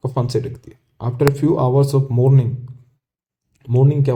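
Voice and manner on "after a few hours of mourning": very slow, word by word; slow reading. Shown as a demonstration. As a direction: read the line slowly for the class. Teacher reads textbook passage aloud. (धीमे-धीमे पढ़कर सुनाना)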